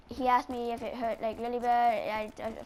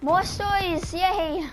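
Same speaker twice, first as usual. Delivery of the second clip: higher and louder, a little mock cheer; upbeat yay, higher and louder; excited cheer; 6 semitones higher, 5 dB louder, much slower than usual. Real, not acted. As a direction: celebrate getting to tell more stories. Cheering about more stories.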